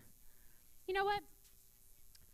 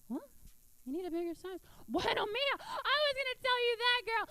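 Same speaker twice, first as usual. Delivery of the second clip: Cuban mom; 7 semitones higher than usual. Retold or imitated. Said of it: "Cuban women".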